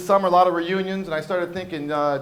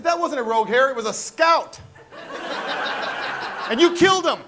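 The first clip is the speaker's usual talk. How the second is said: high-pitched, aggrieved protest; mock outrage; 7 semitones higher than usual. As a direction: accuse as if mourning a fallen comrade. Acted protest over a lost hair.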